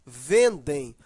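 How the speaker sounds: "Vendem" with a strong first syllable; low-pitched "Vendem", first syllable stressed. Shown as a demonstration. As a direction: lean into the VEN of "Vendem". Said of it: "a sílaba mais forte é vem".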